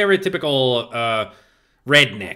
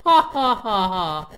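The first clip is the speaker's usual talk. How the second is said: mock laugh; 7 semitones higher, slower than usual. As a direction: laugh it out high and deliberate. Mock laugh while playing.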